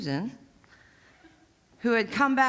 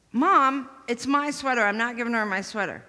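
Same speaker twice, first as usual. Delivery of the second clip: insistent protest; 3 semitones higher, 3 dB louder than usual. Retold or imitated. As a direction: stress on "my" in "it's my sweater". Girl insisting to mom.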